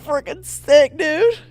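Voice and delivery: very high, loud surfer-bro cheer. Pretend. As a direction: yell it like a stoked bro. Continues the catchphrase.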